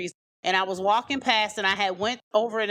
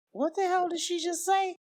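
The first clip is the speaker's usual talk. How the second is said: imitating shock; 10 semitones higher than usual. Uncle's shocked look.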